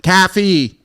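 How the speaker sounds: "Caffey" with a short open "a"; open-vowel pronunciation. Shown as a demonstration. Man trying out Boston "Caffey", open "a". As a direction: say "Caffey" as "CAF-fee".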